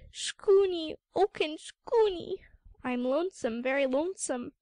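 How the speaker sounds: little seal pleading with the sea lion; distressed pup cry. Acted. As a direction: wail for help from the water. Frightened seal pup cries for help.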